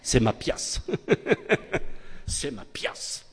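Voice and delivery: whispered mock little sister; imitating the sister, whispered; sister's childish claim. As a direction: breathe it out like a possessive child. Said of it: "Alors elle disait".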